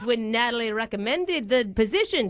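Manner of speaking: badly faked Irish accent; put-on accent. Prank caller cites Natalie's recommendation, in fake Irish. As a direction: keep up the mock Irish accent. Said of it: "flow in and out of different accents".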